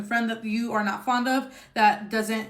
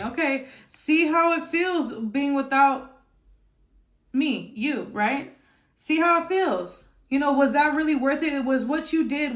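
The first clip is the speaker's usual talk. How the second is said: taunting ex; 4 semitones higher than usual. Pretend. Speaking for client to ex.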